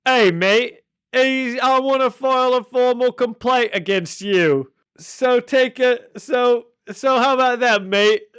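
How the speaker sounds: high, loud cartoon villain voice with matey bluster; hammed-up high character voice, loudly protesting; Kangaroo. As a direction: put on a high-pitched, indignant comic complainer. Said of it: "And the kangaroo's like".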